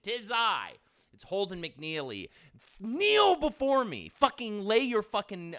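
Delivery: booming, slow, high commanding voice; dark lord. Acted. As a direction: proclaim like a pompous overlord. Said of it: "he would scream if you did that".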